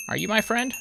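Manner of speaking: squeaky friend voice; high cutesy question. Acted. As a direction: ask the bee sweetly. Talking to a bee.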